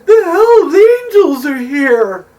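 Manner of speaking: high, loud, drawn-out panicked wail; hammed-up shriek of dread; petrified. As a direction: imitate a terrified woman raising the alarm. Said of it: "just petrified".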